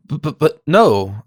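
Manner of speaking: slow, broken repeated b before no; stammering. Acted. Watson stammering at the news about Natalie. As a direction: stumble through it in disbelief. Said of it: "I stammered".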